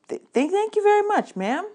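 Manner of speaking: high, loud, stuttering thank-you; stammering thanks. Acted. Boy thanking the librarian for the huge book, stammering high and loud. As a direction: trip over the thanks in awe.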